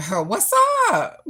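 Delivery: high, loud laugh into a cheerful hello; delighted laughing hello; laughing greeting. Real, not acted. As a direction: burst out laughing as you greet them. Host laughs greeting a viewer.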